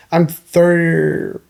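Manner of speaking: laughing through a flustered correction; laughing at herself. Real, not acted. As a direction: giggle out the age. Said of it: "I don't know how old I am".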